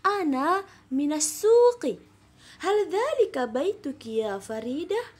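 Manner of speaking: lively conversational reading of an Arabic dialogue; animated classroom dialogue reading; dialogue read-aloud. Shown as a demonstration. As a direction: read it like two friends chatting, not recitation. Teacher performs the dialogue.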